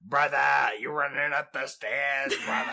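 a light put-on Scottish brogue, brother-style; lightly voiced Scottish runner coaching; hint of Scottish accent; mock Scottish accent. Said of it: "Is he Australian?".

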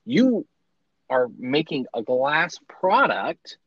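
excited apology. Retold or imitated. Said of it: "panicked and excited".

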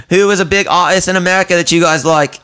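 high, fast nervous stranger impression; high mimic voice. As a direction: squeak it out like an awkward stranger. Mimicking the odd guy.

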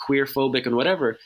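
ordinary talk

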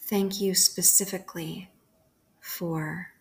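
calm, unhurried prayer with long pauses between phrases; guided prayer meditation. Acted. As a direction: lead a bedtime prayer, leaving room to repeat each phrase. Leads a bedtime guided prayer.

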